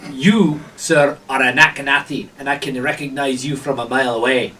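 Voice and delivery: lightly voiced official, deliberate emphasis; suspicious gatekeeper. Gatekeeper identifies a stranger's people, knowingly suspicious. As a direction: size them up with measured, pointed words.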